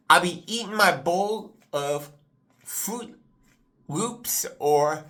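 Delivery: halting words from a brain freeze. Real, not acted. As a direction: wince through a cold ache. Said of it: "I'm getting a brain freeze here".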